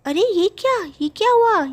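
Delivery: high, startled cry at her changed looks; shocked gasp. Acted. Bathing woman, seeing her new face, shocked cry. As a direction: react in disbelief, voice jumping up.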